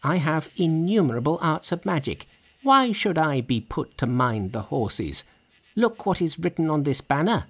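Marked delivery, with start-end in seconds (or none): 0.0-2.3 high-pitched indignant monkey; very angry. A narrator's reading. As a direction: rebuke the braggart in a high voice. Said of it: "very angry".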